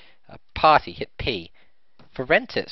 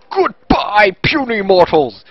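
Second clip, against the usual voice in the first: booming, higher dragon voice; louder, slow villain monster; 3 semitones higher, 12 dB louder, slower than usual. Pretend. Sign-off in monster voice.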